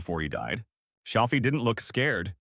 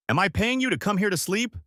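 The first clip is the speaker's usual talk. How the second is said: angry boss yelling, higher; shouting; 9 semitones higher than usual. A narrator's reading. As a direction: yell it at the slacker. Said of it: "He shouted".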